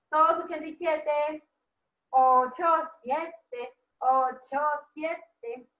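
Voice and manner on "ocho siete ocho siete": lower, separated deliberate digits; digit-by-digit dictation. Shown as a demonstration. Teacher dictates page ochenta y siete to children, digit by digit. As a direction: say each number on its own, measured.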